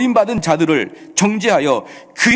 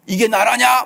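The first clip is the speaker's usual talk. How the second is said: higher-pitched imitation of public outrage; mock outcry; 4 semitones higher than usual. Preacher imitating people raging at a light sentence, mock outcry. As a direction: protest like an indignant citizen. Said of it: "막 또 난리를 치잖아요".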